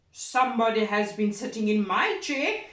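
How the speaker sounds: lightly voiced big papa bear; a hint of the big bear; great big bear voice. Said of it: "in his great big voice".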